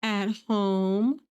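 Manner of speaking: put-on sweet little-kid answer; sweetly. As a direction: answer sweetly like a small child. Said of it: "Lucy very sweetly is like".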